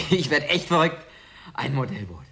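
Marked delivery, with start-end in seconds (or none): 0.1-1.0 stunned, then blurting out the joy; from a hushed gasp to a delighted cry; amazed disbelief. Acted. Stunned by the model ship gift.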